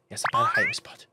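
very high silly voice; squeaky mock voice. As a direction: squeak it like a cartoon. Mocking squeaky echo of himself.

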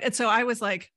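normal talking voice

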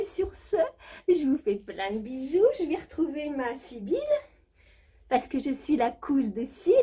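high, breathy posh diva voice; hammed-up high society diva; rich diva character. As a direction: play a spoiled jet-set lady bragging. Same diva character continues.

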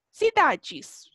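"cidades" slowly, see-DAH-djis; DE plus S as "djis". Shown as a demonstration. Teacher showing final S changes nothing, "cidades" ending "djis". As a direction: keep "dji" and just add S to "cidades". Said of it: "no me va a interferir en la pronunciación".

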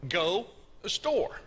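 "Go" and "store" set apart; stress on key words. Shown as a demonstration. Preacher answering his quiz, "Go" and "store" emphasized. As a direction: isolate "Go", pause, then land on "store". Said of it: "What's the most important part of that?".

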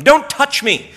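high, loud mock recoil; prissy refusal; mock squeamish. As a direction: push her away with a fussy "Don't touch me". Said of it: "As if Jesus didn't want Mary to reach out".

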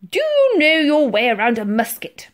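loud, high admiral; commanding question. A narrator's reading. Admiral quizzes Titch about muskets, commanding. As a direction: boom the question at a subordinate.

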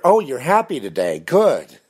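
high-pitched mock cheer of a stranger; exaggerated high, pleased surprise; mock delight. Voicing a stranger who comments.

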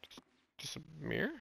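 tense hushed murmur; hushed dread. Real, not acted. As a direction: keep it near silent while sneaking. Creeping near the figure.

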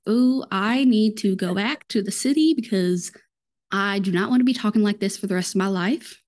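self-mocking Texas Southern twang; Southern accent. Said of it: "start to hear my Southern slang".

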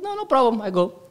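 high, loud, quick reassurance; eager acceptance. Retold or imitated. Boy to his friend about the distance, eager.

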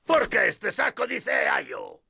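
angry shout. Acted. Bandit angry at the sacks.

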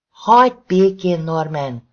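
loud, strained scream at her husband. Acted. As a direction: scream it at him with everything.

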